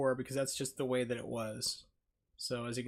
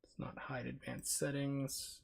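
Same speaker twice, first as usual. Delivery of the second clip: whisper; 9 dB quieter, slower than usual. Real, not acted. Muttering to himself at settings.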